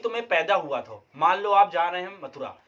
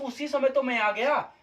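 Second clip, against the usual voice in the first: slow, deliberate example sentence; 4 semitones higher than usual. Shown as a demonstration. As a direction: say each word slowly for the class. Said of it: "अब जैसे".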